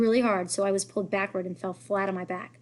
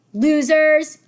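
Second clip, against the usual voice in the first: loud, high defiant shout; Henry yelling after the bullies; shouted really loudly; 7 semitones higher, 12 dB louder than usual. A narrator's reading. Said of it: "Henry shouted really loudly".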